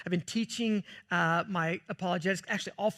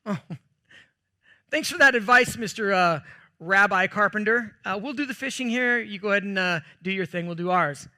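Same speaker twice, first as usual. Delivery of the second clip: mock-sarcastic brush-off, louder, laughing at the start; hammed-up snide fisherman dismissing the carpenter; playful sarcastic jab at a know-it-all; 3 dB louder than usual. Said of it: "it's what I might have said".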